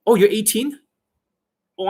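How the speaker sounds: ordinary talk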